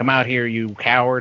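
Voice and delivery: wrestling ring announcer callout. Guessing how a wrestling segment goes, doing an A J Styles impression. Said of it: "is that a good A J Styles impression".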